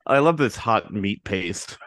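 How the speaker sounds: talking while chewing; words through a mouthful of food; mouth full. Pretend. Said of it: "putting the, uh, a napkin over your mouth when you're chewing".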